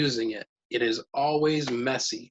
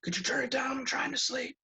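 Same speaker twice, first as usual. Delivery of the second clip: imitating the child; 13 semitones higher, 6 dB quieter than usual. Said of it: "and you would say".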